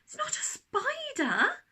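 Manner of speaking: put-on high, loud, slow child's shout. A narrator's reading. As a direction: shout it out, fed up. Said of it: "Daisy shouted".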